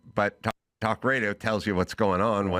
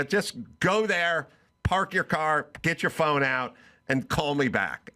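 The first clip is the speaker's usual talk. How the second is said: firm instructions; 4 semitones higher than usual. Retold or imitated. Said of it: "I go".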